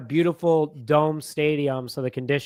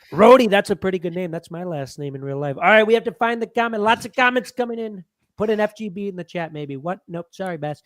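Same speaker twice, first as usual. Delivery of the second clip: higher-pitched comic announcer-like put-on voice; put-on character voice; 4 semitones higher than usual. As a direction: do the bit in a raised character voice. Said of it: "do the voice".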